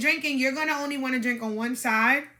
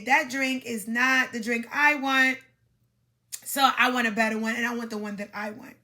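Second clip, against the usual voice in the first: mock blunt demand, spelled out word by word at first; too blunt. Shown as a demonstration. Coach shows how not to ask for a drink, mildly blunt. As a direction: overly direct demonstration of what not to say. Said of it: "you're not gonna say it like that".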